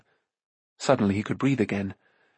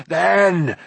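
pleading; 7 semitones higher, 4 dB louder than usual. A narrator's reading. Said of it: "Gurgi pleaded".

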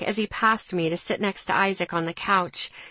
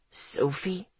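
stunned question; 2 semitones lower, 7 dB quieter than usual. A narrator's reading. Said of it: "Ethan asked, his eyes storming".

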